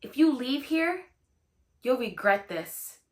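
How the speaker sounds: mock-sinister parting threat; ominous warning. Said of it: "she finally has this tone of voice".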